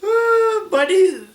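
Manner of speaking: high, giggly aside; real helpless amusement; laughing through words. Real, not acted. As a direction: talk while cracking up at yourself. Laughing at own accent.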